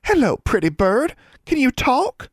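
put-on high baby talk to a bird; lilting, very high pet voice; sweet sing-song coo. A narrator's reading. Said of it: "cooed in a sweet sing-song voice".

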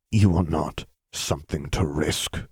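slow, lightly gritted teeth; mild restrained anger, pressed out slowly; ground out. Acted. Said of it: "he ground out".

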